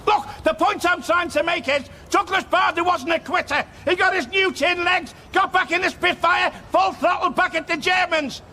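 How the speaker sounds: rally a doubting crowd with mild force; rousing speech. Acted. Manager defending his team to grumbling supporters, rousing speech.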